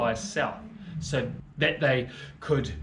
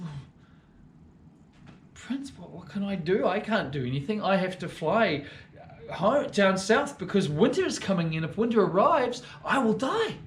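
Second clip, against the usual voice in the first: higher, fretful bird voice; worried swallow; 4 semitones higher than usual. Acted. Swallow to the prince, fretful and high-pitched. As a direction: fret that winter will kill you. Swallow pleads he must leave.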